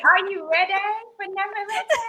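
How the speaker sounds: mock-seductive hype line; playfully sexy. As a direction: purr it as a playful come-on. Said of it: "I can make that sound sexy".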